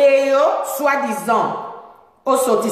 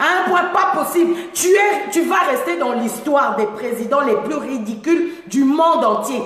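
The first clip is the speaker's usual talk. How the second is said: angry shout. Real, not acted. Angry rant at the president.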